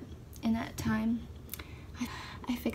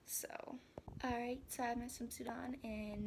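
whispering; 12 dB quieter than usual. Real, not acted. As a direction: breathe it out in a whisper. Whispering quietly.

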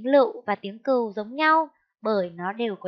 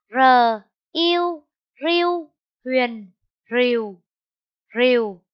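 spelling out; 5 dB louder, slower than usual. Shown as a demonstration. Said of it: "Cô đánh vần là".

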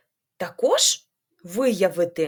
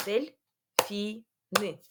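Дельфіни again slowly as дель-фі-ні, a little softer; softer slow syllable repeat; 4 dB quieter, much slower than usual. Shown as a demonstration. Teacher repeats the word so children clap along. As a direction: echo Дельфіни slowly and gently in three beats. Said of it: "порахуємо руками".

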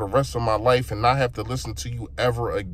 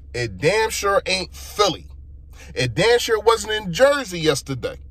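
ordinary talk

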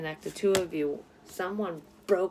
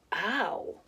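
sudden pain; slower than usual. Real, not acted. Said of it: "that fucking hurts".

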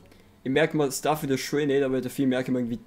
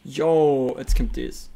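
hyped; 6 dB louder, much slower than usual. Real, not acted. Hyped streamer announcing the moment.

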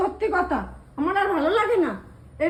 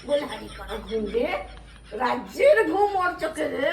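mocking laugh; 3 semitones lower than usual. Mocking laugh at her sleep.

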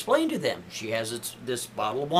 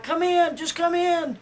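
calling out; 13 semitones higher than usual. Retold or imitated. Calling paramedics through locked door.

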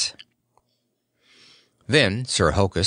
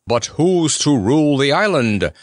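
a knight's voice, higher and demanding; 5 semitones higher, 4 dB louder than usual. A narrator's reading. Knight demanding of the friends who rules. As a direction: press the question like a stern knight. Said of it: "demanded Sir Hokus".

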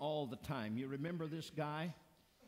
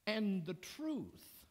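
slow earnest; slower than usual. Real, not acted.

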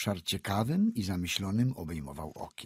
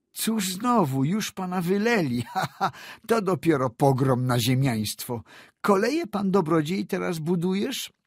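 high, loud, laughing scorn; mocking laugh; 10 semitones higher, 5 dB louder than usual. Young landowner jeering at Cedzyna's fate, laughing high. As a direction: jeer at the fallen squire.

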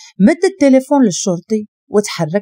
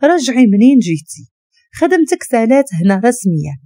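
usual speaking voice

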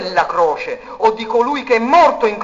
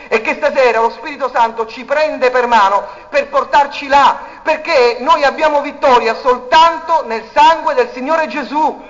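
rising preaching; 5 semitones higher, 5 dB louder than usual. Acted.

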